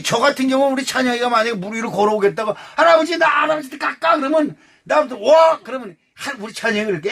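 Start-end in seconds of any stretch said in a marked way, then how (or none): 2.8-4.2 put-on high, quick child asking grandpa; child's voice. 5.2-5.6 calling out. Retold or imitated. Grandpa calls child over.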